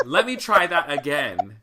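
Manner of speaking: loud, slow, emphatic repeat; insistent pulpit call; Pentecostal preacher retry. Retold or imitated. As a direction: address a silent congregation loudly and slowly. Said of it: "full, like, Pentecostal".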